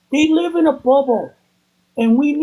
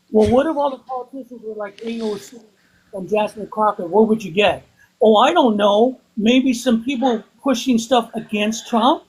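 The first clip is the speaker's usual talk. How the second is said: underwater. Real, not acted. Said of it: "you sound like you're underwater".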